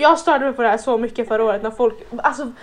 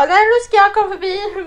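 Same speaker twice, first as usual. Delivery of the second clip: high, loud imitation of someone barging past; loud mimicked huffiness; mock pushy demand; 8 semitones higher, 5 dB louder than usual. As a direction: push through with a raised, insistent voice.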